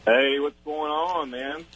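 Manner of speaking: slow Southern drawl greeting; easy deep South accent. Real, not acted. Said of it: "I think I know who this is by the accent".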